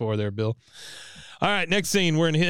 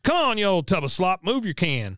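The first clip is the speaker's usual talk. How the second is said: mock taunt; 6 semitones higher than usual. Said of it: "Bobby taunting Bill".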